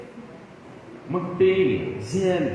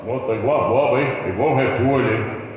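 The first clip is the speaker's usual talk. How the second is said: mocking jab; 2 semitones lower, 4 dB louder than usual. Husband mocks wife.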